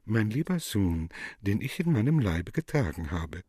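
fake tenderness. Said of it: "mit gemachter Zärtlichkeit".

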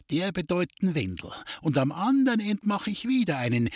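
a hint of a wheedling gypsy fortune-teller; sly gypsy. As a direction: tease him with the rival's luck. The gypsy Duli ties the knots.

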